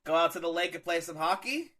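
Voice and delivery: playful Canadian lilt, rising at the end; Canadian accent. Pretend. Host inviting a buddy to hockey, jokey Canadian accent. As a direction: keep up the mock Canadian accent. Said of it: "I can't do a Canadian accent".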